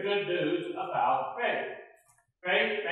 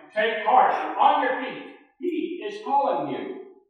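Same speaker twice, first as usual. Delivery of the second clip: eager call; 7 semitones higher, 8 dB louder than usual. Retold or imitated. Disciples calling Bartimaeus over.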